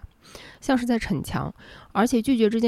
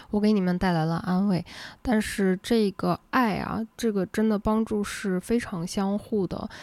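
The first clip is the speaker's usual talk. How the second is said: ordinary delivery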